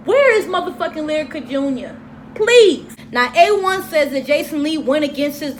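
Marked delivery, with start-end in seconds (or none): 0.1-3.0 mock outrage. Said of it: "I was just like".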